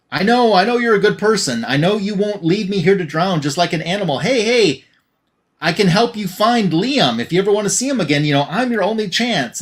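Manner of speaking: wheedling head. Retold or imitated. Severed head bargains with the heroine to avoid drowning, lightly coaxing. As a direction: talk her round, a touch of desperation.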